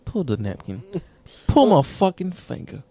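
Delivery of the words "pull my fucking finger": higher, falling joke command; play-acted magician's order; oddly delivered command. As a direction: pitch it up, then let it drop. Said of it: "The fuck you say it like that?".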